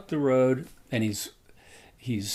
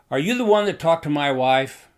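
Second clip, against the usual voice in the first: retold shout; 4 semitones higher, 8 dB louder than usual. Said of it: "He just kind of shouted at me".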